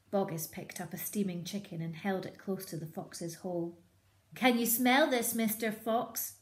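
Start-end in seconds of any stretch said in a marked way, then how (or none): 4.3-6.4 higher, loud teasing shout; shouted taunt. Acted. Boggis teasing the fox with chicken, loud shout. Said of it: "he shouted".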